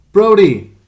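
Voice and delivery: very high, loud scream of the dog's name; terrified scream. A narrator's reading. Frightened boy screaming for his dog, terrified scream. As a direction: call the dog for help in terror. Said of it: "His voice was high, terrified".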